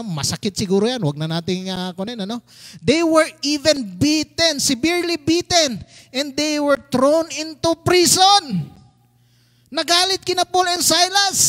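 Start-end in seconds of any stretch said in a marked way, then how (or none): 2.8-8.7 slow, emphatic preacher's reading; scripture reading. A narrator's reading. Pastor reading of the beating and prison, emphatic. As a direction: press on each phrase.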